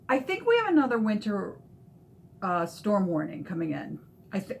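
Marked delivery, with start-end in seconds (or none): 4.3-4.6 talking through hiccups; words broken by a hiccup. Real, not acted. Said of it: "Sorry, I have the hiccups".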